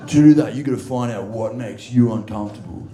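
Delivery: lightly voiced preachy gym bro; a hint of the earnest ice-bath coworker; bro guru impression. Quoting the ice-bath coworker with mild mock preachiness. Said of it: "He's like".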